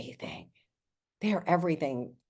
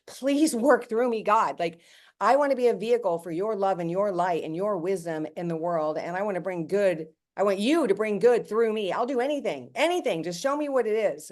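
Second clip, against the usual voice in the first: retold tearful prayer; 2 semitones higher than usual. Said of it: "tears just streaming down my face".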